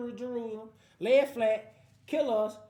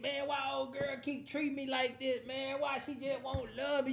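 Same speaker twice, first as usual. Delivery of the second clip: a touch higher and softer, lightly voiced moping homeboy; whiny lovesick friend; 3 semitones higher, 4 dB quieter than usual. Friend whining to his boy about his girlfriend, lightly mopey. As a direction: mope about old girl like a heartbroken buddy.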